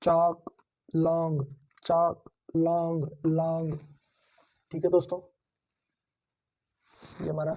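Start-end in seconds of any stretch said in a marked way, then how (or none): 1.8-3.1 डाल and बाउल drawn out slowly side by side; slow contrast drill. Shown as a demonstration. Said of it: "आप बोल के देखिए दोस्तों".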